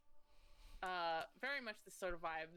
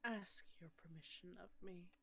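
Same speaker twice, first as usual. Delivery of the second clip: whispering goddess; 6 dB quieter than usual. Acted. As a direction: breathe it like an ancient goddess. GM voices the Raven Queen.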